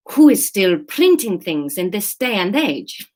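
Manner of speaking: put-on slow Spanish-accented student. Student questions printing in this day and age, Spanish accent. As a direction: puzzle it out slowly in a Spanish accent. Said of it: "Let's do Spanish".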